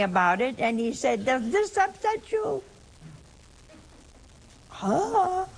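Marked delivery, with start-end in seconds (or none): 1.2-5.5 challenging Jesus. Retold or imitated. Jesus challenging the doubting followers.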